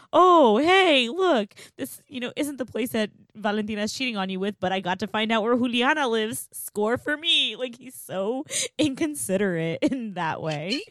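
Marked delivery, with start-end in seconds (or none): 0.1-7.5 mocking clueless Sergio. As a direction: play him as an oblivious, pleased-with-himself dude. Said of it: "'Cause he's just like".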